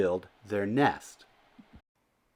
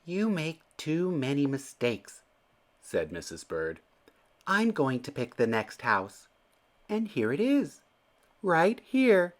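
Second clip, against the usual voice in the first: bossy Missus Bird; 6 semitones higher than usual. A narrator's reading. Missus Bird takes charge.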